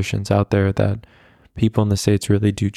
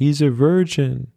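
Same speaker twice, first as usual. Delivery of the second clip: sudden, blurted, high-pitched outburst like a mock scream; 6 semitones higher than usual. Retelling how a friend interjected while chatting with a girl: imitating a scream. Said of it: "my friend interjects and just screams".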